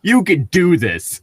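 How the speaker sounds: a lightly voiced encouraging voice in the head; mock cheerful inner voice. Friend imitating a supportive imaginary voice, lightly voiced cheering.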